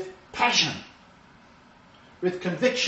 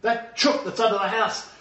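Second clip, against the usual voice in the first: excited chase; 7 semitones higher, 5 dB louder than usual. Retold or imitated. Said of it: "And Kate's gonna say".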